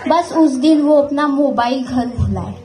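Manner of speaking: measured couplet with pauses between phrases; mock shayari recital. Performer reciting a Hindi couplet about phones, mock shayari delivery. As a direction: recite it like a shayari, building to a punchline.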